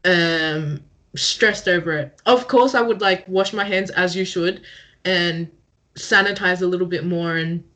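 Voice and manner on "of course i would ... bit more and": talking while shivering from cold. Real, not acted. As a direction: voice shaking with the cold. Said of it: "I sound like I'm shivering".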